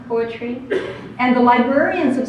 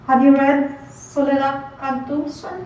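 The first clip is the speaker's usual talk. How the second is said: hopeful student Beto; 3 semitones higher than usual. Acted. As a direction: ask hopefully as a young student. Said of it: "a student called Beto".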